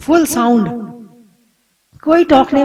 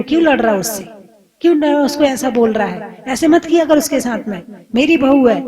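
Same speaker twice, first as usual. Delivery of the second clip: scolding mother-in-law; faster than usual. Retold or imitated. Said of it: "डांटेगी बेटी को".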